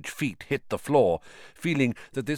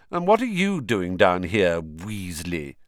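sneering; 3 semitones lower than usual. Acted. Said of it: "he sneered".

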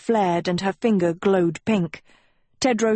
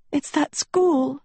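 high, slow tearful plaint; drawn-out, distressed high voice; sobbing; 8 semitones higher than usual. A narrator's reading. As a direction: sob it out in a raised pitch. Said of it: "she sobbed".

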